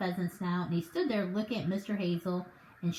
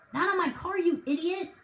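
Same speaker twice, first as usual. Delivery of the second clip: much higher, yelled in outrage; bellowing; 9 semitones higher, 3 dB louder than usual. Acted. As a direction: bellow at the fool. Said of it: "Mister Hazel bellowed".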